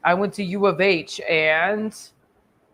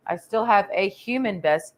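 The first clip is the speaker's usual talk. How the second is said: ordinary delivery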